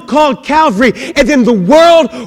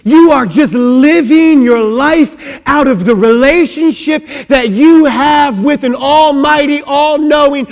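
rising louder to crying-out climax; building preaching; 4 semitones higher, 4 dB louder than usual. Acted. Preacher building to the congregation, louder. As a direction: build it to a fervent peak.

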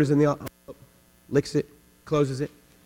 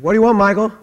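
loud, higher, irritated call through the door; annoyed shout; 6 semitones higher, 8 dB louder, faster than usual. Retold or imitated. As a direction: snap at a coworker you think is pestering. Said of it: "I said".

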